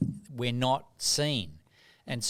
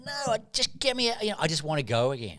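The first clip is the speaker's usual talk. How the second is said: desperate. Retold or imitated. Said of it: "And I'd be going".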